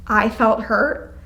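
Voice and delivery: slow, gentle I-statement. Shown as a demonstration. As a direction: say it softly, owning it. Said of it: "It sounds softer when you say".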